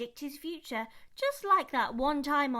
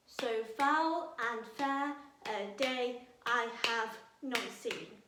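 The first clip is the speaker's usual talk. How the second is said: slow, beat on every other syllable; clapped out; slower than usual. Shown as a demonstration. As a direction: clap along, one syllable at a time. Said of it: "clap it out with me".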